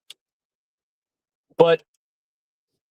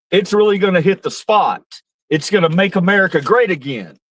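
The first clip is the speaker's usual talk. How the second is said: Trump-style bragging; 3 semitones higher than usual. Retold or imitated. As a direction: brag about McDonald's like Trump, tongue in cheek. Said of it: "Who the fuck talks like that?".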